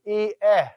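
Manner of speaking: E, eh said as two distinct vowel sounds; E, eh with a break between the two vowels; E, eh with the iota and epsilon kept apart; separate vowels. Shown as a demonstration. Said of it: "pronounce them separately".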